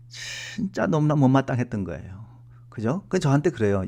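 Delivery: ordinary delivery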